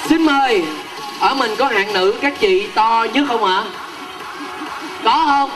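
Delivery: upbeat MC calling out to the crowd; lively stage announcer; game show host. Acted. MC calling contestants up.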